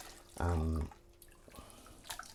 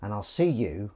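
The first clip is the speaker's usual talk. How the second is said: slow sign-off. Real, not acted. Closing sign-off.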